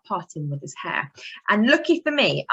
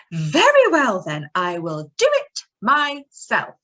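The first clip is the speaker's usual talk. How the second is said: determined hen; 5 dB louder than usual. Acted. Hen answers in story.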